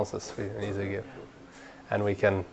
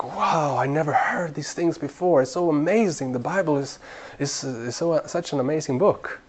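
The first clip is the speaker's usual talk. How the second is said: higher, lightly acted wonder; amazed listener; 4 semitones higher, 3 dB quieter than usual. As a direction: imitate a delighted new believer, a touch amazed. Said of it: "They'll be like".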